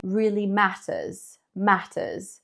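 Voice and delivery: "matters" with a crisp British t; hint of a British "really matters"; light British accent. Teacher contrasting a British accent with her American one. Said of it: "if I had a British accent".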